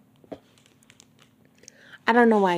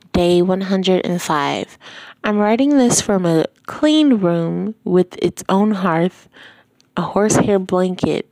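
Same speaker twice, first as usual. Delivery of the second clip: story reading; 6 dB louder than usual. Acted. Reading book diary aloud.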